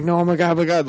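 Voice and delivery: mom panicking. Retold or imitated. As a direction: squeal it like a scared mom. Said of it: "She's like".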